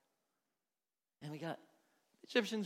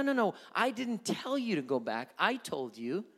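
building impassioned appeal; 3 semitones higher, 8 dB louder than usual. Acted. God's voice rising in appeal.

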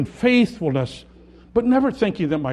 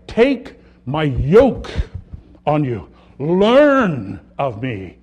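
slow solemn quote; 6 dB louder, much slower than usual. Acted. Preacher reciting Jesus' words.

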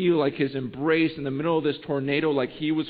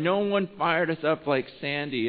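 normal talking voice

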